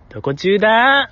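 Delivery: a light imitation of a cute late-night anime voice; cute anime girl. Host imitating Minami's cute take on the line. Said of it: "いわゆるみなみちゃんのオーソドックス可愛い".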